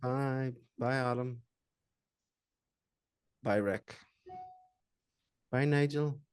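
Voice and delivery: put-on soft, slow, soothing bedtime storyteller lull. Saying goodbye to people leaving a Zoom call: put-on soft bedtime stories voice. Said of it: "a bedtime stories voice".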